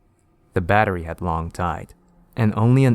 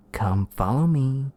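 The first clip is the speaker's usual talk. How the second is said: luring Sosuke; 6 semitones higher, slower than usual. Acted.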